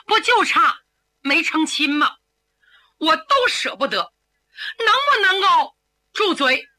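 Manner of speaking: pleading tearfully. Acted. Young man begs his sweetheart to stop, tearful. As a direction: beg her to stop, voice cracking.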